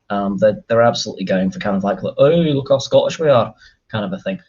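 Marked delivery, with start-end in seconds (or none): 2.0-3.5 hammed-up mock Scottish accent, slightly raised pitch; badly faked Scottish boast; terrible Scottish accent. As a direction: put on a bad Scottish accent. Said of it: "That was a terrible accent".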